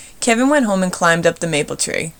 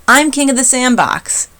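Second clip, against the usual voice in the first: yelled; 6 semitones higher, 4 dB louder than usual. A narrator's reading. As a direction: stretch the yell out bossily. Bully yelling.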